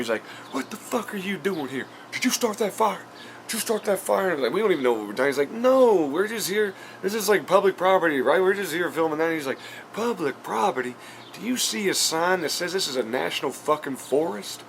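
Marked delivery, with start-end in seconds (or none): 0.5-4.3 high-pitched mock redneck confrontation; imitated angry swearing. Vlogger acting out an angry redneck questioning the crew, mock-angry. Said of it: "like, swearing at me". 5.5-9.2 high, pleading-loud self-defense; acted protest. Vlogger replaying his defense to the angry redneck, high protest. 9.9-14.6 high-pitched mock-indignant redneck; imitated angry challenge. Vlogger mimicking redneck scoffing at public property claim, mock-indignant. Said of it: "like, swearing at me".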